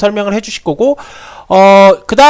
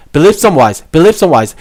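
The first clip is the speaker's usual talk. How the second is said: "some" said fully and stressed in "believe some wise"; 4 semitones lower, much slower than usual. Shown as a demonstration. Teacher contrasting a stressed word for students, stressing "some". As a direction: lean on "some" so it stands out. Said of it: "이게 강세가 들어간".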